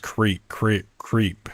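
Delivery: "creep" with a long ee; guessed pronunciation. Shown as a demonstration. Gamer guessing how crepe is pronounced, "creep" with long ee. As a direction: rhyme "creep" with sleep. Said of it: "I'm pretty sure it's pronounced".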